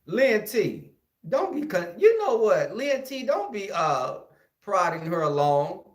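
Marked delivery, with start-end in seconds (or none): 0.0-3.7 raised voice calling out to Lynn T. Real, not acted. Comic calling out to Lynn T to hurry her. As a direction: call out across the room to Lynn T, prodding her along.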